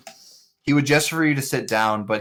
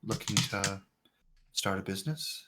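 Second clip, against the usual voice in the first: quiet stranger voice. Acted. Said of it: "you'd say".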